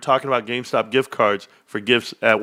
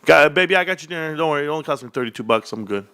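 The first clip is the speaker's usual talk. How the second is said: lightly acted, higher sweet-talk to a wife; quick, reassuring patter to his wife; telling his wife; 3 semitones higher, faster than usual. Husband telling his wife about dinner, lightly acted reassurance. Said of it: "told my wife".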